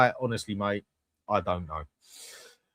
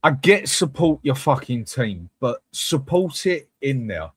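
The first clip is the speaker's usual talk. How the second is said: slow, emphatic, louder outburst; exasperated rant; 3 semitones higher, 4 dB louder, slower than usual. Real, not acted. Fan fuming at supporters outside the ground, slow angry rant. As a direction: spit each word out in disbelief.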